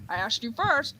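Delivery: lightly indignant call, first take; calling for an echo. Acted. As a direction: answer the echo back. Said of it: "the Echo scene".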